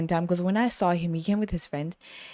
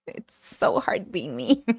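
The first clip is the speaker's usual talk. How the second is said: mock lament; slower than usual.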